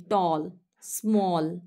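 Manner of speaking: टॉल and स्मॉल each drawn out as one slow syllable; one-syllable demo. Shown as a demonstration. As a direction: say टॉल, then स्मॉल, each as a single unbroken beat. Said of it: "एक ही syllable प्रोनाउंसिएट होता है". (टॉल और स्मॉल, हर शब्द एक ही syllable में धीरे-धीरे)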